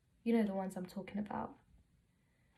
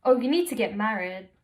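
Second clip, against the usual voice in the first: lightly imitated auntie, louder; a hint of an insistent auntie, louder; nagging auntie; 7 dB louder than usual. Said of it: "And my personal favorite".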